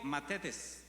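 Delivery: matetes said slowly, each syllable clear; matetes, pronounced deliberately as a Greek term; Greek word. Shown as a demonstration. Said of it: "con T H".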